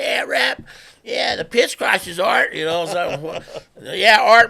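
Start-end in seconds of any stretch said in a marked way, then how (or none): 0.0-2.5 higher, louder mocking sneer; sarcastic mockery. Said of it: "I was like". 3.8-4.5 much louder, higher sneering "art"; mock the very idea of it; sarcastic scoff. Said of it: "I was like".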